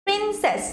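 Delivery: প্রিন্সেস with প্রিন held and সেস falling; stress on first syllable. Shown as a demonstration. Teacher sounding out the word while writing, প্রিন্সেস stressed on প্রিন. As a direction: put the weight on প্রিন in প্রিন্সেস. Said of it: "প্রিনে আমার জোরটা বেশি পড়ছে".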